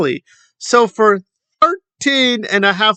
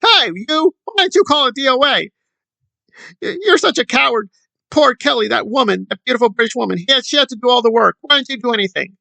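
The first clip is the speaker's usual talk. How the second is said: mock fan rant; 4 semitones higher than usual. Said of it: "there you go".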